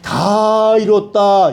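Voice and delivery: very drawn-out, sustained proclamation; imitated final cry. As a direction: stretch the first word into a long call. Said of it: "큰 소리를 내신 거예요". (길게 끌어 외치는 흉내)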